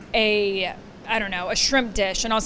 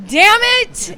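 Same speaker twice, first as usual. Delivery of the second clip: higher, much louder shout of frustration; loud outburst; 12 semitones higher, 13 dB louder than usual. Retold or imitated. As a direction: blow up all at once, venting. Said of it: "I voice it really loud".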